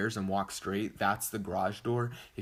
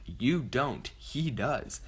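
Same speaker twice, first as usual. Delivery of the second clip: higher, emphatic mock retort; retold snippy retort; 4 semitones higher, slower than usual. Sister arguing with her brother's friend, lightly mocked snippy retort. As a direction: imitate her contradicting you, pitched up.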